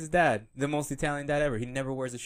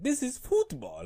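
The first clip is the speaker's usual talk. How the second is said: cartoon character voice; 13 semitones higher, slower than usual. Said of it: "King of the Hill when they're like".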